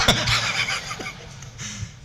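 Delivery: wheezy voiceless laugh. Real, not acted. Preacher joking with the congregation, laughing. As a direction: laugh at your own joke.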